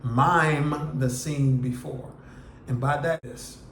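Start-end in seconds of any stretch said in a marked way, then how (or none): 0.0-2.1 MIME stretched out, the whole phrase slow; emphatic repeat. Real, not acted. Teacher repeats the second step so it sticks, slow and emphatic. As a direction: repeat it slowly, leaning on a long MIME. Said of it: "Let me say that again".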